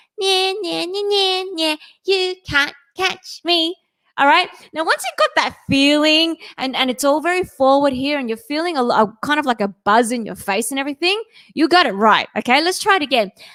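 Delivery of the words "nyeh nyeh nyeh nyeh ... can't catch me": put-on high, bratty, most annoying five-year-old voice. Showing learners a schoolyard taunt in an annoying five-year-old voice. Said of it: "in your most annoying five-year-old voice".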